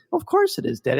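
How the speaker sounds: a light imitation of a deadpan child; serious little son. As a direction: play the son stating the obvious. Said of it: "like, real serious".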